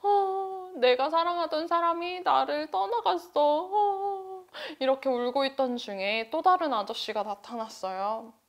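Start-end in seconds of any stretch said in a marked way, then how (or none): 0.0-4.4 high, sorrowful wail; sad lament. Acted. Abandoned wife laments her husband, high and sorrowful. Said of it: "아줌마는 너무너무 슬펐죠".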